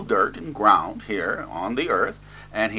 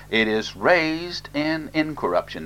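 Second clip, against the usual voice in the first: "raised" pitched high and drawn out; stress on raised; 6 semitones higher than usual. Real, not acted. Preacher stressing a key scripture word, stress on "raised". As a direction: lean slowly and firmly on "raised". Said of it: "I must emphasize this word raised".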